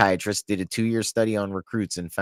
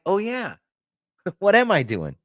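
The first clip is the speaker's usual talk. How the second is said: mock realization; 10 semitones higher than usual. Imitating sailor realizing mistake.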